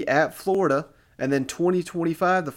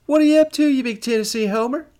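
louder, higher teasing hello; hearty ribbing welcome to the cohost; playful loud greeting; 8 semitones higher, 6 dB louder, faster than usual. Real, not acted. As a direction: rib your buddy with a big hearty call-out.

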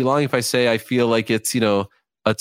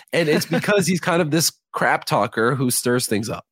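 hoarse, fading voice; losing voice; 4 semitones higher than usual. Real, not acted. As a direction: voice giving out, a bit raspy. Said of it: "I'm losing my voice now".

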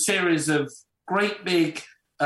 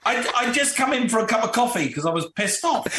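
higher, laughing through the words; real amused laughter while telling; 7 semitones higher than usual. Real, not acted.

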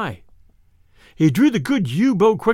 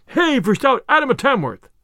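crowd cheer; 6 semitones higher than usual. A narrator's reading. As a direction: call it out over the crowd. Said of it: "some crying".

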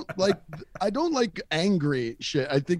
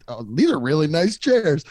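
mock-innocent compliment, louder; feigned innocence; 7 dB louder than usual. Storyteller complimenting the boss's office, feigned innocence. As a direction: play clueless with loud small talk. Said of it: "like to pretend like I don't know why".

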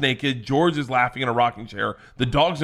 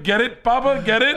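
put-on eager child; 12 semitones higher, 5 dB louder than usual. Little girl pleased with her joke.

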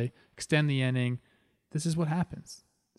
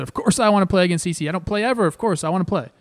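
quick, louder and higher, eager to get in the game; eager reply; 5 semitones higher, 4 dB louder, much faster than usual. Retold or imitated. Bench player tells his manager he's eager to play, fast and excited. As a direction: blurt it out fast like you've been dying to play.

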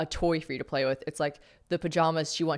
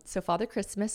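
usual speaking voice

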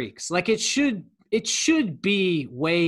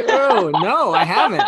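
laughing; 3 semitones higher, 6 dB louder than usual. Real, not acted. Laughing at the ASMR imitation.

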